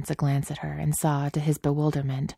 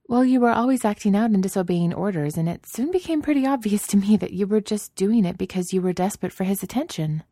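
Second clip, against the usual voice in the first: Padme's voice; 6 semitones higher than usual. Acted. Padme explaining.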